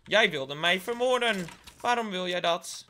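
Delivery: loud sing-song hello to an enemy; teasing an enemy who tried to kill him, loud mock-friendly hello; mock friendly greeting. Greets enemy player in character.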